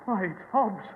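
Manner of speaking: shocked outburst; horrified exclamation. Acted. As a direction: recoil at the bloody body. Director sees dead guard.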